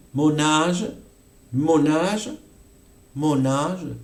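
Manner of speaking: "âge" with long open A. Shown as a demonstration. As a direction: hold the A in "âge". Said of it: "el alargamiento de la vocal A". ("âge" con A larga)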